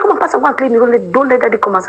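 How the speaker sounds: high-pitched pretend scolding, pushing her to go clean; a friend faking a stern command to cover the escape; mock bossy order.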